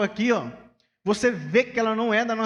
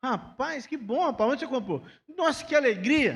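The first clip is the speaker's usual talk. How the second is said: higher, bright delighted reactions; happy for you; 6 semitones higher than usual. Shown as a demonstration. Pastor modelling how to praise a friend's shirt, delighted. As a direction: show the kind response with delight. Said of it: "a pessoa não consegue falar assim".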